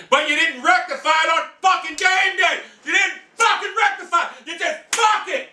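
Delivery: high yelling accusation; angry shout at coach. Real, not acted. Fan yelling at absent coach Chudinski, high and furious. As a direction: hammer the coach with fury.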